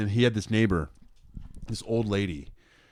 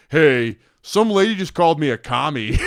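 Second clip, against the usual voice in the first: friend; 6 semitones higher, 6 dB louder than usual. Retold or imitated. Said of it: "friends that would come over and be like".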